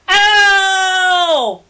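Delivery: furious high shout; screaming. Acted. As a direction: yell his name in outrage. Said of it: "Will screamed".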